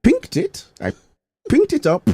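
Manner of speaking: high-pitched imitation Indian accent. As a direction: land the pun in a put-on Indian accent. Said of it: "I'll try my best to do the Indian accent".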